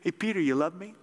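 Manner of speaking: a hint of a teasing friend. Shown as a demonstration. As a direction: poke at him playfully. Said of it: "Is he messing with Peter?".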